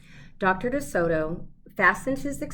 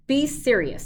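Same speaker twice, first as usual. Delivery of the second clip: 1 sharply; 7 semitones higher, 7 dB louder than usual. A narrator's reading. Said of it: "said the dentist sharply".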